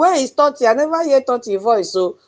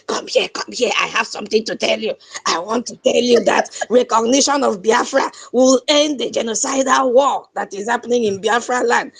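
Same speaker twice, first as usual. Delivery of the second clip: imitating Ajere. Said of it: "Let me do like Ajere".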